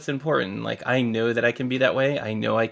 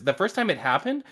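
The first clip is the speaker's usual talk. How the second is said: usual speaking voice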